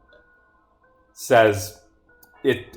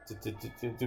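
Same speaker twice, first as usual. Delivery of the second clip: scrolling filler noise; 16 dB quieter, much faster than usual. Real, not acted. Filler sound while scrolling.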